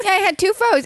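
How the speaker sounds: real laughing confession. Real, not acted. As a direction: admit it giggling. Laughing admission.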